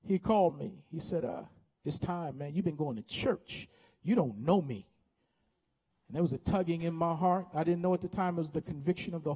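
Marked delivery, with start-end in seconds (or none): 1.8-4.9 low, softened direct address; Jesus calling. Retold or imitated. Voicing Jesus calling the young preacher.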